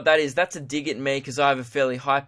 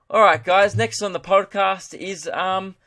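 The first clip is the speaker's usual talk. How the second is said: higher, louder podcast link; segment demo hand-off; 5 semitones higher, 4 dB louder than usual. Shown as a demonstration. Host demonstrating the segment's end, presenter delivery. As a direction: move the show briskly on to the next topic. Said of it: "so that was what it would sound like".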